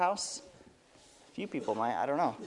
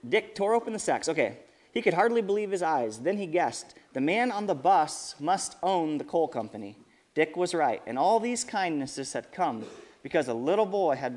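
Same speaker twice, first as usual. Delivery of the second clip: lively storybook reading with voiced quotes; storyteller voice for kids; reading to children. A narrator's reading. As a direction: read it out to the kids at church.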